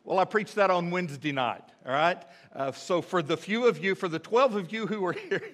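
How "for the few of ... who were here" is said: teasing sarcasm breaking into a laugh; dry dig at the absentees; sarcastic. Real, not acted. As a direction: needle the crowd playfully, then chuckle. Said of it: "I'm being sarcastic again".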